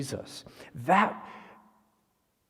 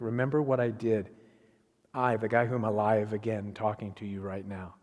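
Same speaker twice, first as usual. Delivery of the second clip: low voice, softening at the end; gentle reassurance; 4 semitones lower than usual. Acted. Preacher as risen Jesus showing his wounds, gently reassuring. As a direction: remind them calmly, sinking low.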